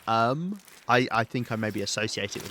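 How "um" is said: put-on higher, louder Valley girl filler; Valley girl accent. Shown as a demonstration. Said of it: "like, a Valley Girl accent".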